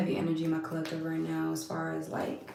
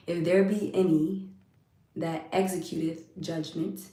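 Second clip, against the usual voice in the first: measured, weighty Bible reading; scripture reading; slower than usual. Acted. Reading scripture to live viewers, solemn recitation. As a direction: read the verse slowly, pausing between phrases.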